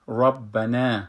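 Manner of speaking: ربنا repeated with a heavy ra; full ra again. Shown as a demonstration.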